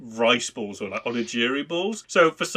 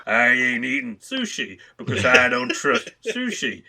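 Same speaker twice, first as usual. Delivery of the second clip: put-on cowboy accent. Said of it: "sounds more like a cowboy".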